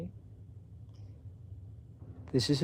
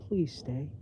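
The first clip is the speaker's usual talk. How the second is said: mild whine; 3 semitones higher than usual. Acted. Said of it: "just short of a whine".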